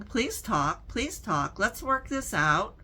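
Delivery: a mild imitated plea, lifted in pitch toward the end; retold begging. Woman retelling how she reached out to her brother, begging. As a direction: plead lightly, replaying an old appeal. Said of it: "what I felt was begging".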